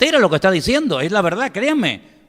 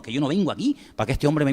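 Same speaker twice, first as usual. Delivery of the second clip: normal talking voice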